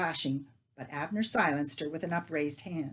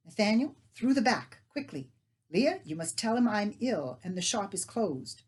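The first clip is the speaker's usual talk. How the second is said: urgent orders; 4 semitones higher, 4 dB louder than usual. Acted.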